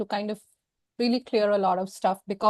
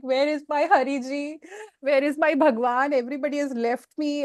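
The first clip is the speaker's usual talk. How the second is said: retold despair; 4 semitones higher than usual. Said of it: "I'm like".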